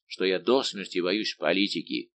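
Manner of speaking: usual speaking voice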